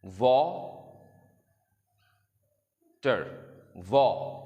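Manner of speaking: वाटर then वॉ said clearly, chin moving per syllable; hand chin demo. Shown as a demonstration. Teacher demonstrates hand chin method, syllable by syllable. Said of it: "मिसाल के तौर पर ये देखें".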